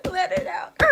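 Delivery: high, loud coaching cry; cheering on. Acted. Punching the pillow, loud high coaching. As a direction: urge yourself on as you punch. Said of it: "I was like".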